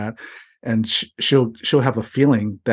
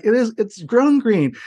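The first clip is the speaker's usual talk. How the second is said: higher, slow, "grown" pushed hard; exasperated insisting; 10 semitones higher than usual. Retold or imitated. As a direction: repeat it, losing patience. Retold argument getting exasperated.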